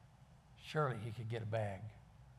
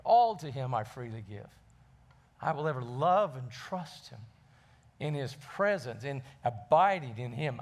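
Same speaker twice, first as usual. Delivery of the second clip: hymn lyrics; 6 dB louder than usual. Acted. Preacher quotes hymn lyrics.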